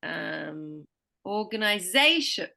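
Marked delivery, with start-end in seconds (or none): 1.2-2.5 ZA punched in organization; stress before the suffix. Shown as a demonstration. Teacher giving an example, ZA strong in organization. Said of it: "always has the most stress".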